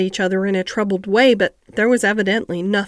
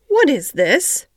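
alarmed; 5 semitones higher, slower than usual. A narrator's reading. Doctor bursts in alarmed.

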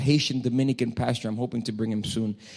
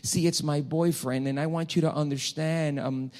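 softer, slightly higher imitation of a girl; girl seeking counsel; 3 semitones higher, 5 dB quieter than usual. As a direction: lightly mimic her confiding in the pastor. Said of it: "And she says".

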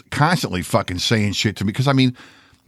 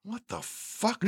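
laughing disbelief; 10 semitones higher, 14 dB quieter, slower than usual. Retold or imitated.

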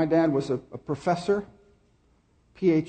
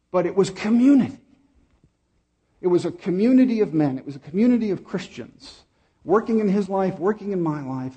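higher and louder, driving the point home; preaching climax; 4 semitones higher, 4 dB louder than usual. Real, not acted. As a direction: preach it out with full force.

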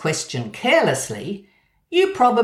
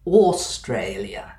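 the Queen's pronunciation; 6 semitones lower, slower than usual. Retold or imitated. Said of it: "Queen Elizabeth ... always said Australia".

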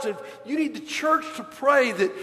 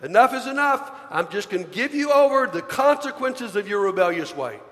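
lightly voiced God, louder and fed up; a hint of stern God; 2 semitones higher, 4 dB louder than usual. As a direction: say it as God giving up on someone, with some force. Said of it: "where God says".

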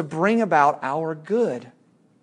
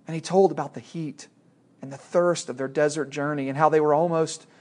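steady read-aloud narration; a preacher reading Narnia to his listeners; story reading. A narrator's reading.

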